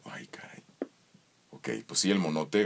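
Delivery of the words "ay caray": susurro. Retold or imitated. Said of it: "y digo".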